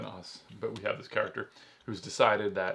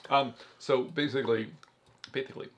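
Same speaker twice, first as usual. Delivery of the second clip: talking while chewing gum; words around a wad of gum. Real, not acted. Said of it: "You're talking while you're chewing gum".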